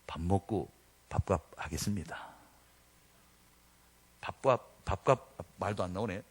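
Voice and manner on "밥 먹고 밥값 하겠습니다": smiling reply. Retold or imitated. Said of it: "웃으면서".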